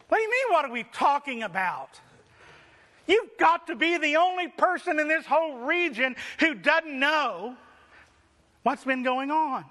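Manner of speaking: high, scoffing disbelief at what do you mean; incredulous mockery. Disciples scoffing at the clueless stranger, mock incredulous. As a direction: scoff at the stranger as if he missed the obvious. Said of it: "Let me paraphrase it for you".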